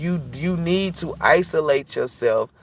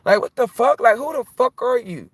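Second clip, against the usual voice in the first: much higher and louder, shocked; startled shout; 11 semitones higher, 3 dB louder than usual. Retold or imitated. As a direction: yelp it like you just spotted a stranger. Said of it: "I'm like".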